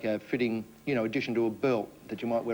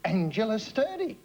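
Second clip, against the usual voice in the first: high, slow and delighted; gleeful; 9 semitones higher, slower than usual. Shown as a demonstration. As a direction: announce the name with glee. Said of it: "mention my name in a gleeful voice".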